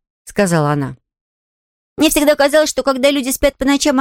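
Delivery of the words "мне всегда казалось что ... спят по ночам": put-on high, earnest child's voice; musing little girl. Girl telling the invalid her notion about sleep, earnest. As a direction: share an odd idea as a little girl.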